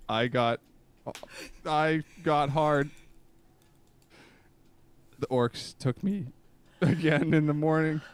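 slow, solemn recital with long pauses; earnest poetry reading, lingering between lines; dramatic poem reading. Acted. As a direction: read it like a heartfelt confession poem.

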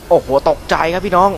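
a real jolt of surprise; startled. Real, not acted. Gamer tells viewers he got a fright, startled and loud.

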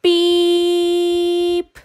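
high, bright toy horn beep; little truck beep. A narrator's reading. Friendly little truck beeping to the farm animals. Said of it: "said the friendly little blue truck".

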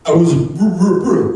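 loud stuck on wrong again; choking on the word; stammering Fonz. Retold or imitated. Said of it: "I didn't hear you".

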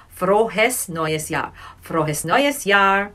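Frohes neues Jahr said slowly twice; slow repeat. Shown as a demonstration. Teacher repeating greeting for students, slow. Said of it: "so let me repeat".

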